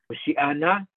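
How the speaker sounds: Hoshiana stressed on the a after shi; stress on the ayin. Shown as a demonstration. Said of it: "With the stress on the ayin".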